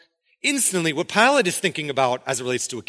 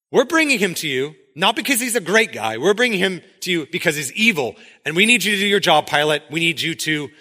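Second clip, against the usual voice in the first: insistent; 3 semitones higher, 4 dB louder than usual. Acted. Acted leaders pressing Pilate.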